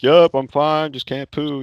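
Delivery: mock reassurance called through a door; calling back. Patient covering for secret squats, calling back to nurse.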